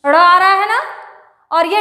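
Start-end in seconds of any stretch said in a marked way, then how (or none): 0.0-0.2 ड़ said as a flapped r-like sound, tongue curled; retroflex flap ड़. Shown as a demonstration. Teacher showing the sound ड़ to students, flapped. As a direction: flick the tongue for ड़. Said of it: "अंतर समझ में आ रहा है बोलने में भी".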